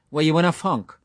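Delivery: a hint of teasing mockery, slowed; mock outrage, playful; lightly voiced jester. A narrator's reading. Mulligan teasing Stephen about his name, light mock scorn.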